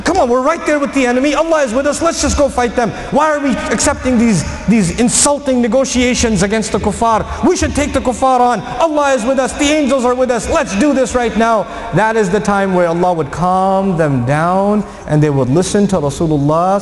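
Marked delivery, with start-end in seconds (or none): 0.0-11.6 a mildly raised, impatient call to fight; eager, angry companions. Retold or imitated. Frustrated companions urging each other to fight the enemy, mildly raised and impatient. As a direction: urge the others on, hot and impatient. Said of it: "their anger was high".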